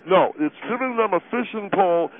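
chewing while talking; words round a bite; mouth full. Acted. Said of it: "impolite to talk with your mouth full".

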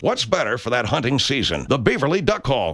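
folksy pitchman selling duck calls; radio ad read. Acted. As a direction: sell it like a cheesy radio ad.

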